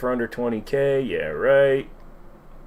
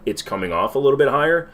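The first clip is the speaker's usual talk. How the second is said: slightly raised, more animated speaking voice; emoting a bit more, pitched up slightly; higher register; 3 semitones higher than usual. Real, not acted. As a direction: lift the voice a little higher. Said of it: "speaking in a higher register".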